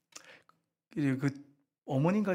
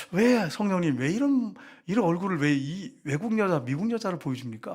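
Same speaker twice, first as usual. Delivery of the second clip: raised, pleading cry to the Spirit; pleading prayer; 4 semitones higher, 3 dB louder than usual. Retold or imitated. Wife asks the Spirit why, raised pleading. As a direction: plead with God in disbelief.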